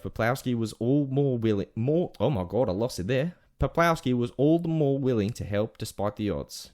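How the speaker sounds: story read in put-on Aussie; Australian accent. Telling the lost-dog story on request, Australian accent. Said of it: "whole rest of the segment in Australian accent".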